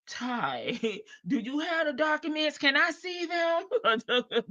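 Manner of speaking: high, soft, drawn-out asking; put-on sweet request. Advisor acting out asking Ty for documents, put-on sweet.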